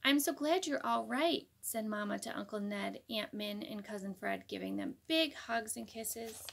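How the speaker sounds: put-on reading a picture book to kids; gentle read-aloud narration; story narration. A narrator's reading. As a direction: tell it like a bedtime storybook.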